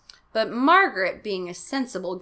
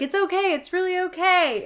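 dad voice; 10 semitones higher, 4 dB louder than usual. Acted. Dad comforting kids, high voice.

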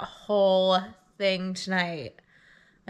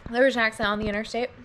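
eating while talking; mouth full. Real, not acted. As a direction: talk through a mouthful. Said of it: "I'm eating chocolate caramels right now".

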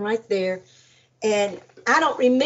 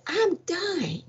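tearful plea; 8 semitones higher, 5 dB quieter than usual. Retold or imitated. Pleading she is dying.

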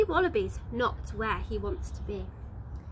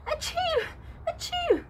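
two sharp high sneezes. Acted. Sneezing joey catching a chill, high sneezes. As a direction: sneeze twice, squeaky and sudden.

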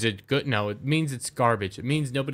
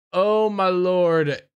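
mock awe; 4 semitones higher, 3 dB louder, much slower than usual. Mocking reaction, slow put-on.

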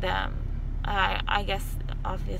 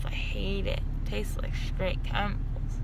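disgusted. Real, not acted. Disgusted at chemical taste.

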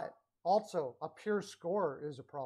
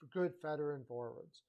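"good" hit a bit harder before veteran forwards; "good" slightly punched; stress on good. Real, not acted. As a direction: lean on the word "good". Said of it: "I stress the word good veteran forwards".

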